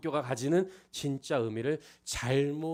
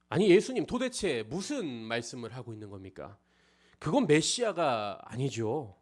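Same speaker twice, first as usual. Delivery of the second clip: raised-voice mock remonstrance, louder; acted indignant protest; 3 semitones higher, 5 dB louder than usual. Peter protesting to Jesus about a suffering Messiah, indignant acted remonstrance. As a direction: argue back loudly, as an acted disciple. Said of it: "따지고 항변하고 소리를 지르는".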